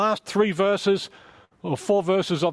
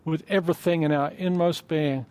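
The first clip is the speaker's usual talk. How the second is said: prayer. Acted. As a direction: pray gently, drawing the room in. Pastor leads closing prayer.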